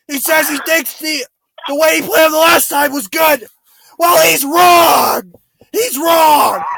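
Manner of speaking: angry rant. Real, not acted. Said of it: "I'm losing my voice".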